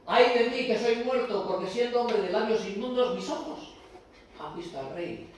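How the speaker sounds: high, loud anguished cry; Isaiah's lament. Retold or imitated. Preacher voicing Isaiah before God, loud anguished. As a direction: cry out as if undone. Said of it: "Isaías, capítulo seis".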